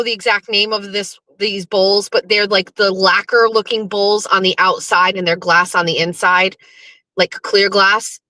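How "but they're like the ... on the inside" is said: ordinary talk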